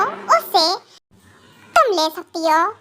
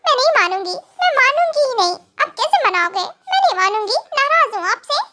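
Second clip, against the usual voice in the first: put-on higher, pouting young wife, hurt and stubborn; a tearful wife refusing to be won over; sulking young wife; 6 semitones higher than usual. Wife keeps refusing, half laughing. (ऊँची आवाज़ में रूठी हुई रोती पत्नी)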